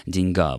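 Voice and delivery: "деньга" stressed on the final а; stress on the last syllable. Shown as a demonstration. Presenter cites the Turkic-derived word, end-stressed деньГА. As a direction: say деньГА, weight on the ending. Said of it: "с ударением на конце".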